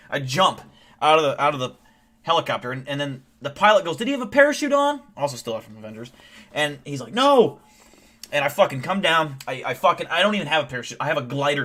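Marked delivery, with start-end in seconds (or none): 4.0-5.0 high, loud incredulous question; shocked pilot. Acted. Pilot after the hero jumps from helicopter, shocked. 7.1-7.6 high, loud horrified cry; alarmed scientist. Acted. Scientist answering the pilot about the parachute, alarmed. Panicked answer in acted story.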